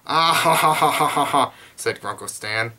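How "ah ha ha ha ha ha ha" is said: loud, high mock belly laugh; acted laughter. Grunkle Stan laughing at Dipper, loud hammed-up laugh. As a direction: boom out a put-on string of ha-has. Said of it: "He was laughing".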